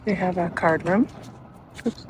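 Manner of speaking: whispering. Real, not acted. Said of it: "I'm whispering because people are around".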